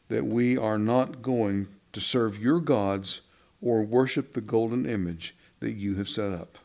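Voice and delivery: defiant young voice, lightly acted; teen voice. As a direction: bold teenager answering the king. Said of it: "Can you hear this in a teenager's voice?".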